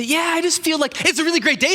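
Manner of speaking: high, chirpy mock-cheer; mock cheerful voice. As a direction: mimic a bubbly quick talker, pitched high. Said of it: "You say".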